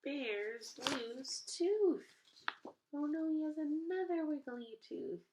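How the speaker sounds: high, loud, slow surprise; oh no, playful surprise; surprised. A narrator's reading. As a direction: gasp it out for the kids. Surprise ending of story.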